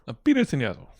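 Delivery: quick repeat through laughter; laughing repeat. Real, not acted. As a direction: echo it while cracking up.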